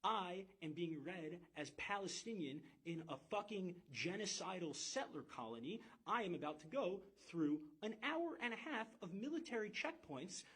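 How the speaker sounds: retold alarm that escalates as it goes; terrified. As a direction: relive the fear, building to a high, urgent pitch. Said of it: "and I was still terrified".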